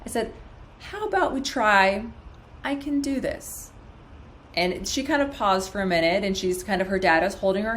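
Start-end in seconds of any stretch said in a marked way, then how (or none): 0.8-3.7 gentle, measured suggestion; nice calm tone. Retold or imitated. Doctor suggesting a new script to patient, calm tone. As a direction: offer it calmly, easing into the last words. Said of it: "offer it in a nice, calm tone".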